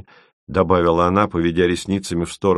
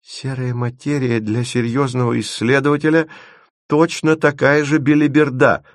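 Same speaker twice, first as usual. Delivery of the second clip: scornful snort; 7 semitones higher than usual. A narrator's reading. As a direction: dismiss it in a raised voice, ending with force. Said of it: "фыркнул Леденец".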